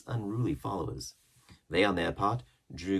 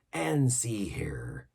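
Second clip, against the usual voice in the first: hushed, slow aside; whisper; 4 semitones higher, much slower than usual. A narrator's reading. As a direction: lean in and whisper it. Silver leans in.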